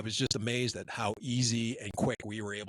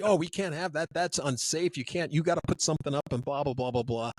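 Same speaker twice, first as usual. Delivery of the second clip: mock fussing, higher then tailing off; safety guys; 4 semitones higher than usual. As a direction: lightly parody a safety officer's objections. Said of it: "the guys are like".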